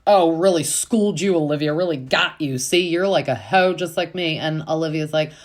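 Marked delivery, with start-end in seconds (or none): 0.1-4.4 louder, higher imitated triumph; hammed-up smug crowing; mock gloating. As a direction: imitate someone loving their gotcha moment. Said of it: "loving it 'cause she thinks".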